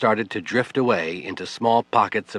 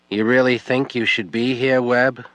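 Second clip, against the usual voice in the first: words slurred, a little higher and louder; drunken slurring; 4 semitones higher, 4 dB louder than usual. Acted. Drunk widow confronting Webb, slurred and bitter. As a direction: slur it like she's had too much. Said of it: "Her words were slurry".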